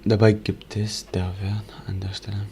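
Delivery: reading aloud in German; German words read under the breath. Real, not acted. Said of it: "I'm gonna try to read it in German".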